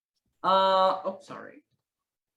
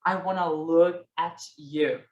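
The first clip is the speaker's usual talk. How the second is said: flirty gaze; 3 semitones lower than usual. Retold or imitated. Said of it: "you're flirting".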